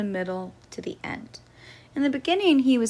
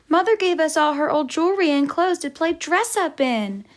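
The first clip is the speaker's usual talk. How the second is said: loud, higher little-sister announcement meant to be overheard; said very loudly; 5 semitones higher than usual. Acted. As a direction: call it out so he hears. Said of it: "said very loudly".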